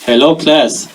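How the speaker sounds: lightly put-on Israeli-accented teacher; Israeli-accented English teacher. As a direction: address a class with a hint of an Israeli accent. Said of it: "do it in an Israeli accent".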